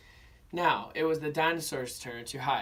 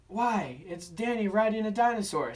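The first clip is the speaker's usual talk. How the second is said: put-on child voice; 7 semitones higher, 4 dB louder than usual. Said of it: "said a child".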